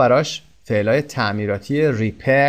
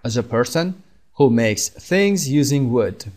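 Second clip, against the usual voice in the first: slow model reading; much slower than usual. Shown as a demonstration. Teacher reads the definition to learners, very slow and careful. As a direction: read "Builds or repairs homes" very slowly, word by word. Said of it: "teacher models definition sentence".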